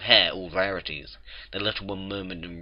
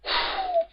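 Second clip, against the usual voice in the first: sigh. Real, not acted. Reader finishes the chapter.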